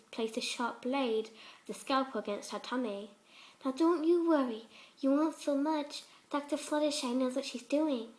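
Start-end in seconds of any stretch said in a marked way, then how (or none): 3.6-8.1 a hint of a gentle, higher pony voice, sweetly unsettling; lightly voiced sweet Fluttershy. Fluttershy voice again.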